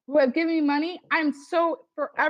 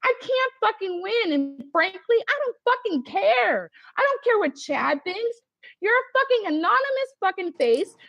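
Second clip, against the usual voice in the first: heated anger; 5 semitones higher than usual. Real, not acted. Crystal venting at the anonymous doubter, furious. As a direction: lash out harder at each line.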